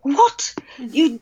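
high-pitched incredulous outrage, acted out; imitating a scandalised, protective mother; majestic indignation. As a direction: rise up in disbelief like an affronted queen. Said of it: "she rose up in her majesty".

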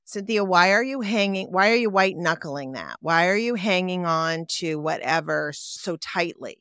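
quick, scolding self-talk. Retold or imitated. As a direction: chide yourself briskly. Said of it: "what I say to myself".

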